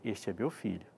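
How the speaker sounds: a hint of a solemn heavenly voice, slowed. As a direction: announce it gently from above. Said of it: "a voz que veio foi". (leve voz celestial, devagar)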